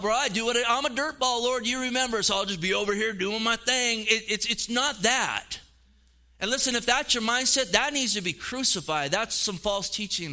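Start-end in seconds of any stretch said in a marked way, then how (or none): 0.0-4.1 lightly voiced careless believer, higher; a hint of a smug excuse-maker; lazy excuse voice. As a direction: shrug it off like a slacker.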